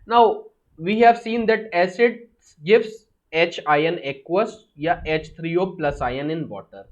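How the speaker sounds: very slow, word by word for notes; slow dictation. Shown as a demonstration. Teacher dictating a definition to students, slow and deliberate. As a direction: dictate slowly so students can copy.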